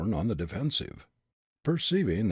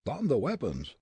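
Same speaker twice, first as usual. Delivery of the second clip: growled; 5 semitones higher than usual. Acted. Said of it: "Grogan growled".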